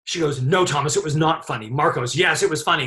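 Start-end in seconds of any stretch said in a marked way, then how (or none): 0.4-1.7 higher-pitched imitated rebuttal; mock indignant correction; retold arguing. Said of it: "they're all arguing about whether it was funny". 2.2-2.8 higher mock insistence; imitated quick contradiction; retold arguing. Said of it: "they're all arguing about whether it was funny".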